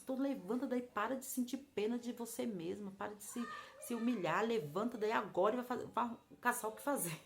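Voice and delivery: firm retold telling-off; mild exasperated command to get moving; scolding. God telling her to stop self-pity, scolding.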